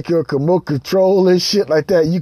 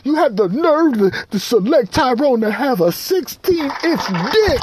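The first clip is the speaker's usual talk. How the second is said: mock accusing; 10 semitones higher than usual. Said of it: "you be like".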